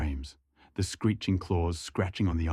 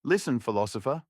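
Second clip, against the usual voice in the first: strong, angry; 4 semitones higher than usual. Acted. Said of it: "his voice now strong and angry".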